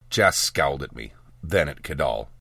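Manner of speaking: plain reading voice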